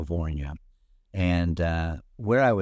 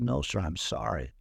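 nervous; 5 dB quieter than usual. Retold or imitated. Nervous reply to irate man.

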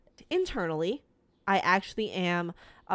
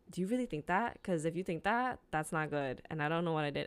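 put-on soft worried boyfriend; 2 semitones lower, 6 dB quieter, faster than usual. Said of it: "he's like".

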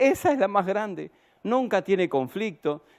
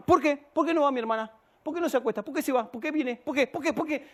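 higher-pitched imitation of a questioning child; niña preguntona; 7 semitones higher, 4 dB quieter, faster than usual. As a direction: fire off each little "why" like a pestering daughter. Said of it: "Para todo ella, ¿por qué?". (imitando a una niña preguntona, voz aguda)

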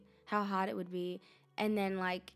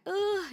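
high, louder "ugh"; exasperated groan; 11 semitones higher, 5 dB louder than usual. Acted. Host on emotional availability being hard, exasperated groan. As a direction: groan at something difficult.

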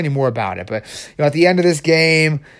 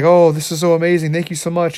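higher, gushing crazy artist; manic; 3 semitones higher, 3 dB louder than usual. Acted. Crazed artist thanks his helper, manic. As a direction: gush with hammed-up gratitude. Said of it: "he's so manic and crazy".

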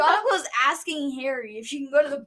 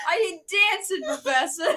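put-on Brooklyn accent; 2 semitones higher than usual. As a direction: put on Brooklyn for a stubborn refusal. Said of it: "The Brooklyn accent".

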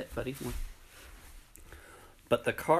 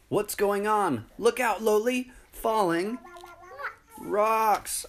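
silly clown; 12 semitones higher than usual. Acted. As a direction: call out the danger. Warning of falling rocks.

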